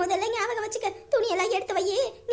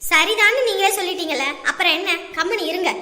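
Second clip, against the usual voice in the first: louder, cutting him off firmly; sharp scolding; 5 dB louder than usual. Acted. Wife cutting off her husband's protest, sharply scolding. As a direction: shut him down with a sharp rebuke.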